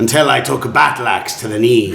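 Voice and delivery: chatty carriageman. Acted. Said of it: "the carriageman comes out".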